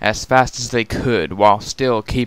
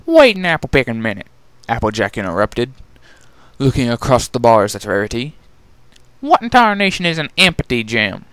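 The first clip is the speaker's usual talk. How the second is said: country mare. Acted. Applejack interrupting Rarity, lightly folksy. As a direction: cut in with country bluster.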